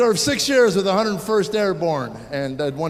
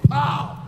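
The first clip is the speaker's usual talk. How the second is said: headbutt sound; 8 semitones higher than usual. Retold or imitated. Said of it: "And she goes".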